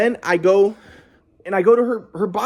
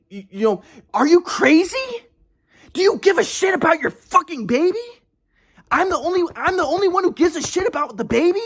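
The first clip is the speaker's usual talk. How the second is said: heated scolding; 3 semitones higher than usual. Retold or imitated. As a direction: lay into her, frustrated and accusing. Retold angry rant at ex.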